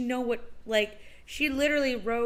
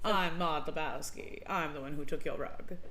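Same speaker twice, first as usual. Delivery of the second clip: lightly put-on transatlantic accent, lower; Maude Lebowski; 4 semitones lower, 4 dB quieter than usual. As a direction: quote a film in Katharine Hepburn-style transatlantic. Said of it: "your Katharine Hepburn type of accent".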